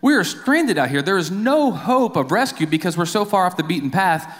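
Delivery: high, rising panic at being stranded; panicked castaway. Acted. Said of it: "he is starting to freak out".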